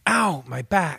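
"Ow, my back" in a thick German accent. Shown as a demonstration. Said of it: "right after me in a German accent".

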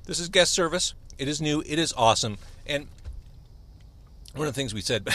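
talking through a mouthful of food; words round a bite of food; mouth full. Real, not acted. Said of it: "I'm talking with food in my mouth".

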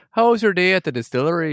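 hammed-up pop-singer-style British accent; muddled British-American accent. Expat asking about the distillery, muddled British-American accent. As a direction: chat in an affected transatlantic British accent. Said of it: "weird sort of, like, Madonna accent".

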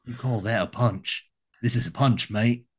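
lightly put-on Australian swagger; Australian accent. Polar bear scoffing at a punch, mock Australian accent. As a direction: taunt them in mock Australian. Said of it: "leaning into my Australian polar bear".

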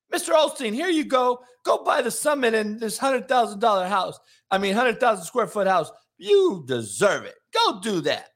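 lightly voiced starstruck donor; gushing worshipper. Mock worshipper handing over money.

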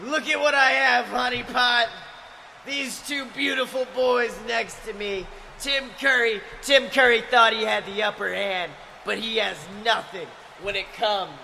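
Guy Fieri. Acted. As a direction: bellow it like a cocky heel. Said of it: "Guy Fieri's backstage right now".

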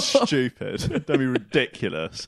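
lightly voiced grumpy old man, scolding; mock exasperation, a hint of grumpy old man. Co-host mimics his friend's old reaction to conspiracies, mildly grumpy old man. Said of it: "not a grumpy old man".

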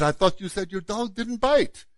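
softly put-on French accent; Jacques Clouseau French accent. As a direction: lightly imitate a French inspector's accent. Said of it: "I'll do my best Jacques Cousteau, uh, accent".

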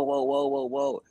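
put-on high, excited whoas of a little kid; kid's amazement. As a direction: gasp it out like a kid watching TV. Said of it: "and going".

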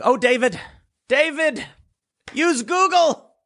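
high patronizing sing-song; mock pity. Real, not acted. Mocking David Hogg directly.

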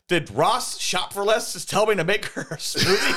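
laughing through quote. Retold or imitated. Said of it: "And the super adaptoid says".

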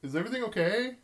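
lilting needy call from the tub; lonely man calling out. Acted. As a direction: call through the door, wanting company. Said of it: "he says".

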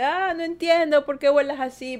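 a retold girl snapping in frustration; annoyed girl. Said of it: "Y la chica se enoja y dice". (chica enojada, más aguda y fuerte)

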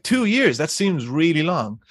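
high-pitched incredulous echo; imitated disbelief. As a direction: imitate a cop astonished by the answer. Cops' disbelieving echo retold.

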